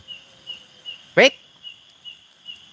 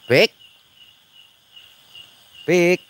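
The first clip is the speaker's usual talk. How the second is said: calling out; 8 semitones higher, 9 dB louder than usual. Real, not acted. Calling friend in the dark.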